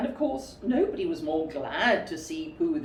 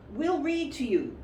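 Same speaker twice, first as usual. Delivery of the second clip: cheerful; 7 semitones higher than usual. Acted. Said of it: "said Rabbit cheerfully".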